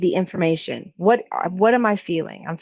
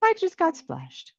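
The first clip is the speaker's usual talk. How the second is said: flustered; 9 semitones higher, 4 dB quieter than usual. Acted. Hasty reaction before staying with it.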